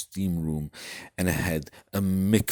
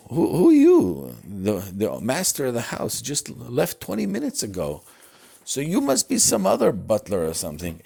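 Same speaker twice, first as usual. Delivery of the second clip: puzzled butler; 5 semitones higher, 5 dB louder than usual. Acted. Butler answers stranger.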